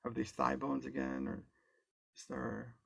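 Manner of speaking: calm, unhurried guide with long pauses; guided meditation. Real, not acted. Guide leading an online group into body awareness, calm guided meditation. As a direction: ease them gently through it, leaving space between phrases.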